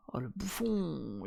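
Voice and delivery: breathy whispered aside, slow. Real, not acted. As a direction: breathe it out under your breath. Muttering at the streamed debate.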